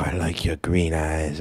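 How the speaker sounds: whispered, doting grandma; whispering. Retold or imitated. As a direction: breathe it lovingly like a grandma. Grandma quoted, getting into it.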